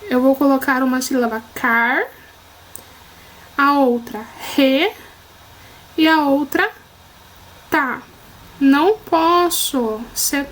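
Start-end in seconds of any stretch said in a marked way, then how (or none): 1.6-2.0 "car" said alone, closed on its r; separated syllable. Shown as a demonstration. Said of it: "Quando eu vou separar". 4.6-4.9 "re" said alone with initial breathy Brazilian r; separated syllable. Shown as a demonstration. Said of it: "Quando eu vou separar". 7.7-8.0 "tá" said alone after a pause; separated syllable. Shown as a demonstration. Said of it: "Quando eu vou separar".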